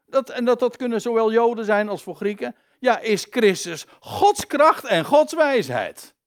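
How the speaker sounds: high, forceful scripture proclamation; emphatic preaching. Acted. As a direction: build to a ringing declaration. Preacher declaims the verse. (krachtig en hoog verkondigen)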